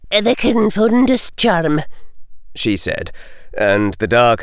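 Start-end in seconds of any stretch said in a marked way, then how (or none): 0.1-1.8 crisp, higher Scottish-tinged professor; McGonagall. A narrator's reading. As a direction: answer briskly like a strict teacher. McGonagall voiced.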